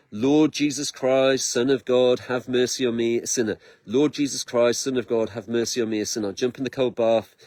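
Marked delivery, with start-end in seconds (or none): 0.1-6.3 murmured Jesus prayer. Retold or imitated. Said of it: "I did the Jesus prayer".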